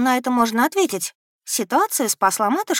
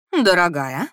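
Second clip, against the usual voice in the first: строго; slower than usual. A narrator's reading. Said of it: "строго произнесла леди Присли".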